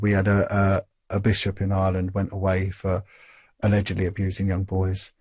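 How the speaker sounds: lightly imitated soft-spoken Irish bishop; soft Irish accent. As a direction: relay it in a gentle Irish accent. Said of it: "in this soft Irish accent".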